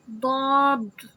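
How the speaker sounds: drawn-out thick "داد" with a bouncing final d; heavy Daad. Shown as a demonstration. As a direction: say "داد" heavy, tongue side on the upper molars. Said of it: "دعات کو heavy کریں گے". ("داد" بھاری، آخر میں پلٹتی دال)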